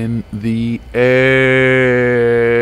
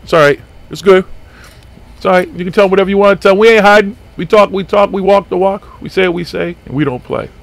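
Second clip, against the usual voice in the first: rhyming hype-call, louder and punchy; sportscaster rhyme; 7 semitones higher, 4 dB louder than usual. Acted. Host defying the agent in rhyme, sportscaster hype. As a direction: rattle it off like a sports announcer. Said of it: "It's like a fucking sportscaster".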